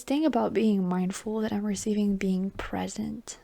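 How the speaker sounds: whispered, intimate reading voice; hushed ASMR-style whisper. Acted. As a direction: breathe the words out like a secret.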